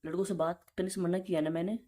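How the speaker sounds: normal talking voice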